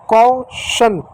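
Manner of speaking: "कौशन" in two parts, kau-shan; silent letter pronunciation. Shown as a demonstration. Teacher showing a silent letter, word in two syllables. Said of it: "यहाँ देखो ई silent है".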